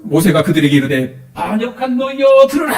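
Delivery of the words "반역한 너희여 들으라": higher, louder angry rebuke of the people; Moses' rebuke. Acted. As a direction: let the anger burst out at the rebels. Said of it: "모세가 지금 하는 말이 이게 뭐예요?".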